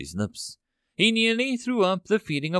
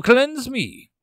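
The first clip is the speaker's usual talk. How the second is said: loud, high scream with his last air; dying soldier screaming to the bird for cleansing; desperate scream; 10 semitones higher, 7 dB louder than usual. Acted. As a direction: cry out everything you have left. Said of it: "he screamed with a little air".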